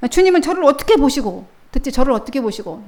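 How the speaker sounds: a wounded disciple protesting; 섭섭한 베드로. Acted. (섭섭해서 높고 크게 따지는 말투)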